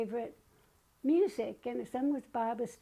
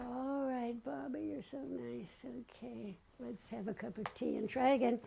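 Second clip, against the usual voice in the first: soft whisper, settling down; 6 dB quieter than usual. Retold or imitated. Soothed by the sweet song, whispering back to Baba.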